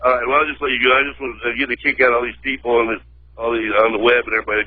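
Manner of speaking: ordinary talk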